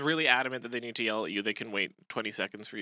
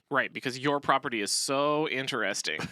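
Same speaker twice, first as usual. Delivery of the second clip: sarcastic. Shown as a demonstration. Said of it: "A bad response could be".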